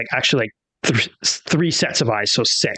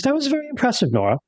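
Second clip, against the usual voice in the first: in-character praise; 11 semitones higher, faster than usual. Acted. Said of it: "Rosalie says".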